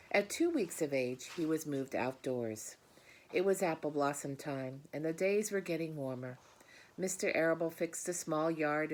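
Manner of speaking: put-on warm, expressive read-aloud to children; gentle storybook reading voice; story narration. A narrator's reading. Reads the story aloud to class.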